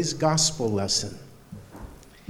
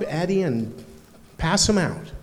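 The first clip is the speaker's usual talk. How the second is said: ordinary talk, nothing marked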